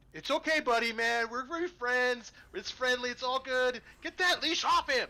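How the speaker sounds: soothing then yelling. Acted. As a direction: reassure the creature, then bark at the handler to free it. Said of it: "he's yelling at the person holding the leash".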